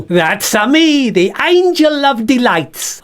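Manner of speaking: high, slow, vain puppet voice; self-important bag puppet introducing itself; Bert voice. Acted. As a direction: present yourself grandly as a puppet. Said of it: "This is Bert the Bag".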